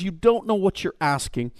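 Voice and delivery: a hint of pilot's gentle knowing; gentle smiling reply. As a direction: say it quietly with a smile. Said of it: "the pilot smiles and says".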